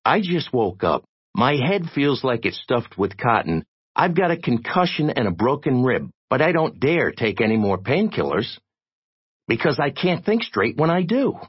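fed-up tirade rising to a threat; exasperated threat. A narrator's reading. Jay warns and threatens Digger.

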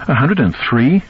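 high, challenging question; almost accusatory. A narrator's reading. Wife hearing the fever reading, almost accusatory. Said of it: "which seemed almost accusatory".

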